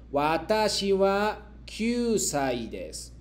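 slow, deliberate model sentence; slow model reading. Shown as a demonstration. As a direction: read it slowly for the class to repeat. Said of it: "yo leo y luego ustedes me repiten".

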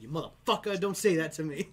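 angry. Retold or imitated. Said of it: "I got mad at one guy".

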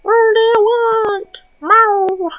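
high, slow pet voice; high pet voice asking the cat. Real, not acted. Baby talk to cat.

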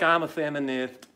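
lightly lisped imitation of a weasel; mocking lisp. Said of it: "It's like".

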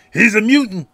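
high, loud crowd shout. Retold or imitated. People in the bar shouting that he is a mutant, high and loud. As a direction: yell it from the back of the bar. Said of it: "people shout up".

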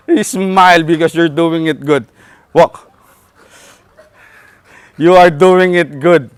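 slow, deliberate, reassuring praise; slow encouragement. Real, not acted. Trainer encouraging the owner walking the dog, slow and reassuring. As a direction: spell out the praise slowly.

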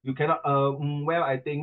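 halting, filler-filled hesitant answer; mock stammering. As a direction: imitate a tongue-tied candidate. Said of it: "你吞吞吐吐".

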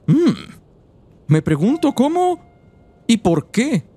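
lightly voiced little old woman. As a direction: read it as a frail old lady. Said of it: "¿Qué les parece mi voz de viejita?". (voz de viejita)

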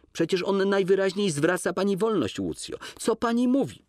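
lightly voiced gentleman, astonished; Kolski's voice. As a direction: question her in disbelief. Kolski's lines read in character.

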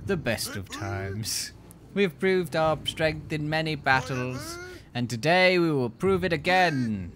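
slow, stirring battle speech; rally the troops with weight; rousing speech. Acted. King rallies his archers.

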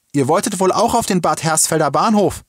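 high, loud question. A narrator's reading. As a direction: call it out, pitched well up. Woman calls to girl amid honking. (laut und hoch gefragt)

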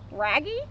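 "Raggy" with an R for the first sound; Scooby-Doo. A narrator's reading. Scooby answers Shaggy, "Raggy" starting on R. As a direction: say "Raggy" in dog-talk. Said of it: "said Scooby".

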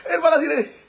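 high voice, shaken by a scare and giggling; startled, laughing. Real, not acted. Streamer telling viewers of the scare, startled and laughing. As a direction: laugh through the fright. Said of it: "me espanté".

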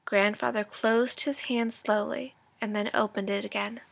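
lively read-aloud storytelling voice; engaged storybook narration for students; story narration. A narrator's reading. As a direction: read it like a teacher sharing a chapter with the class. Teacher reads chapter aloud.

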